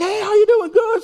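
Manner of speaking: high-pitched, chirpy greeting; friendly greeting. Retold or imitated. Imitating the greeting with someone he knew, high-pitched hello.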